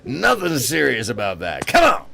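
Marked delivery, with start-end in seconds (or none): 1.7-2.1 high playful squeal. Real, not acted. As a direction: Come on squealed much higher and louder. Teasing exclamation repeated.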